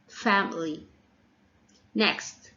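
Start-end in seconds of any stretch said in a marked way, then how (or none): 0.1-0.9 "family" as FAM-uh-lee; strong "fam", schwa after it in "family"; stress on first syllable. Shown as a demonstration. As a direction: lean on the opening of "family". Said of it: "stress falls on the first syllable".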